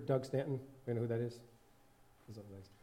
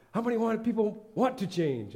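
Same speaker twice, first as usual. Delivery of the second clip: cartoon preacher, slowed; 10 semitones higher, 6 dB louder than usual. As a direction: drag it out like a preacher testing the crowd. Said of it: "a preacher preaching from the thing".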